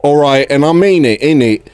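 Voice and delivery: mild southern English geezer lilt; southern slang. Acted. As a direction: play the cheeky south London geezer. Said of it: "doing the fucking southern slang".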